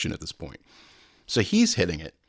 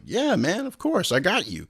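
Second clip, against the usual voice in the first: eager high yes; 10 semitones higher than usual. Retold or imitated. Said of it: "And I'm like".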